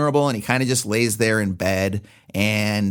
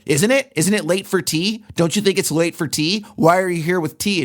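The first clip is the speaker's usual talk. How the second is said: lightly imitated needling questions, higher; a hint of a petty tyrant pressing; mock badgering; 5 semitones higher than usual. Husband badgering his wife over tea, needling and higher. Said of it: "And he's like".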